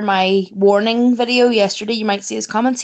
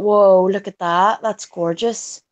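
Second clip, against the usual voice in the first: mild awed murmur; 5 semitones lower, slower than usual. Retold or imitated. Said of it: "and thought".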